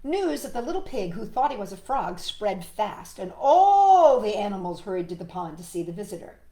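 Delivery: animated read-aloud, swelling on the big word; story narration. Acted. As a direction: tell it to a child with relish. Reads picture book to child.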